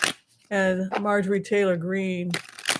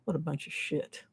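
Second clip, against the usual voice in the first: mouthed quote, quieter; 4 semitones lower, 11 dB quieter than usual. Retold or imitated. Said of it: "she says".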